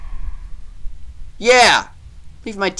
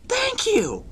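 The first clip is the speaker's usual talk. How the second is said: sarcastic squeal; 4 dB quieter, slower than usual. Real, not acted. Sarcastic reply to the creature.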